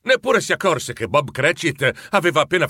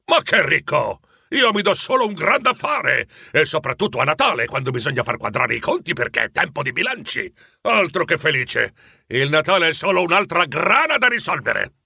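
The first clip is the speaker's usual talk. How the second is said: scandalized. Acted. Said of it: "ribatté Scrooge scandalizzato".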